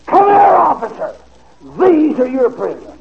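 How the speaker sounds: a sharp, high yell at the officer; retold scream. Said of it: "And he screamed".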